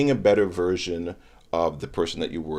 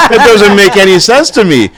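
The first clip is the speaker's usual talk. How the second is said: much higher and louder, laughing through it; 13 semitones higher, 18 dB louder than usual. Real, not acted. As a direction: say it while still cracking up. Still laughing, high voice.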